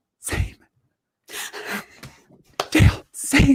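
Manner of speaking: hushed, stunned, dramatic whisper of disbelief. Retelling how Claire reacts around Dale, imitating Claire's whisper. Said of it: "she like whispers and she goes".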